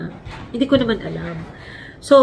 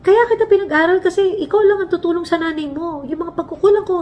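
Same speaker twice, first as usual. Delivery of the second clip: mildly angry father; 9 semitones higher than usual. Retold or imitated. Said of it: "Nagalit siya".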